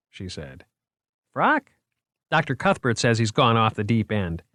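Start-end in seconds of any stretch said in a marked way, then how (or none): 1.3-4.4 proud museum man showing off his finds; eager curator voice. Acted. Moriarty's character voice.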